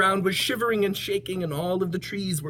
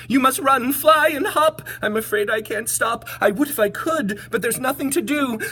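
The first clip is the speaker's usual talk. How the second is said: urgent warning; 9 semitones higher, 6 dB louder than usual. A narrator's reading. Voices the elephant.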